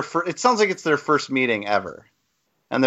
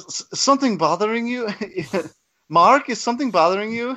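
mock cult movie line; 6 semitones higher than usual. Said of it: "He's like".

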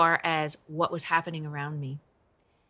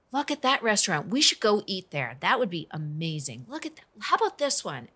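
bright, higher chatter about restaurants; cheerful friend; 4 semitones higher than usual. Retold or imitated. Best friend distracting her on the hospital drive, chirpy. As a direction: play the friend keeping her mind off it.

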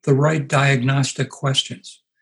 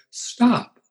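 divine command; 9 semitones higher than usual. Retold or imitated. Holy Spirit commanding Philip.

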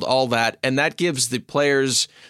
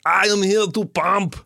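hammed-up higher Austrian-accented bodybuilder voice; Arnold Schwarzenegger; 6 semitones higher than usual. Shown as a demonstration. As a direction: do a bad muscleman action-star impression. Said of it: "the Arnold Schwarzenegger comes in".

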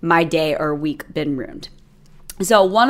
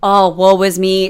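mock self-pity; 4 dB louder than usual. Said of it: "type of mentality".

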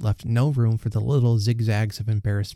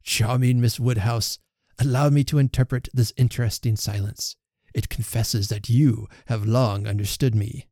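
joyous exclamation. Acted. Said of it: "he joyously exclaimed".

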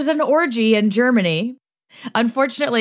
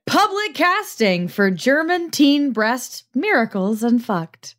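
gleeful title read; 3 semitones higher, slower than usual. Pretend. Reading silly porn title.

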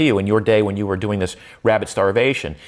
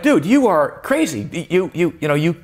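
incredulous; 6 semitones higher than usual. Retold or imitated. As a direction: tell your friend he's crazy. Incredulous rant at friend.

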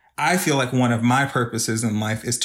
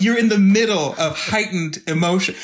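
higher, mock lecturing man; mock rational man; 6 semitones higher than usual. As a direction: imitate a straight man lecturing her, a bit higher. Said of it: "yell at the top of his lungs about how rational he was".

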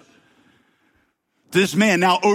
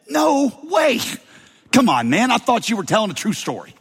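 incredulous; 7 semitones higher than usual. Retold or imitated. Hearers scoff at Jesus' story.

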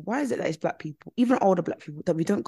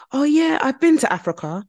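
mock eager white person; 6 semitones higher, 6 dB louder than usual. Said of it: "now I said Nigeria".

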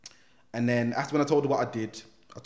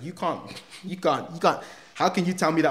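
can't believe what she promises; laughing disbelief; 5 semitones higher than usual. Retold or imitated. Telling the officer she can't promise that, laughing. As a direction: laugh through the protest.

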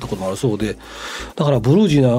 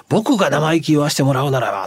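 light impression of a modest star, 僕 leaned on; half-playful mock humility; imitating Nishikiori. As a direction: gently mimic his humble preface. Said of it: "そういう真似しなくてもいいですよ".

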